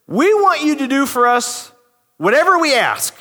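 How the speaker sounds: plain reading of the demand; scripture reading. Shown as a demonstration. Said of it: "So this is what it says".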